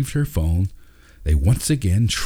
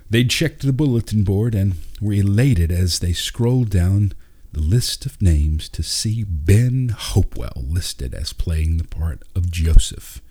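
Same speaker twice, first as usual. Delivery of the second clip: ordinary delivery, nothing marked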